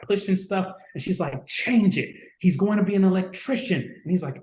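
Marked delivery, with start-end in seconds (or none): 1.5-3.8 imitating a yell. Mother telling the recruiter to change the job, mock yell. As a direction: hammer the recruiter like an angry mom. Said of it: "she's yelling at him".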